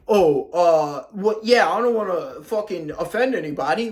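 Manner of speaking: sneering impression of a timid man; mock timid voice. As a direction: imitate a spineless guy dodging conflict. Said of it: "And you're just saying, like".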